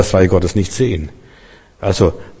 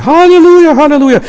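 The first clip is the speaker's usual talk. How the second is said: high, loud, ecstatic church cry; ecstatic shout; 6 dB louder than usual. Retold or imitated. Congregation cries out at the vision, loud ecstatic shout. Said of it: "Und dann schreien sie".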